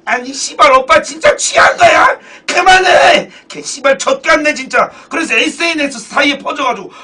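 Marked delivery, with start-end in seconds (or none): 0.0-4.9 loud, raised mock girlfriend outburst; imitating fed-up girlfriend. Girlfriend sick of hearing her boyfriend's song, mock angry outburst. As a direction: play an exasperated girlfriend blowing up. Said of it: "그래, 여자친구가".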